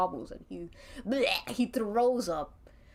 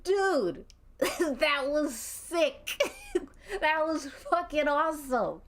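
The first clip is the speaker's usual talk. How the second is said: laughing hard; 6 semitones higher, slower than usual. Acted. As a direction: cackle out the praise, barely holding it together. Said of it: "He's dying of laughter".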